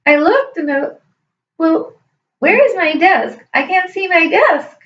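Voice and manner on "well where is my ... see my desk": mildly puzzled, higher-pitched reenactment; acted bewilderment. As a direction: act out looking for something lost, pitch lifted. Retelling her confusion at missing desk.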